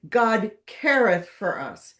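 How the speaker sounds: "careth" stressed over "God"; "God CARETH for us", second word hit. Shown as a demonstration. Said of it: "Emphasis on the second word".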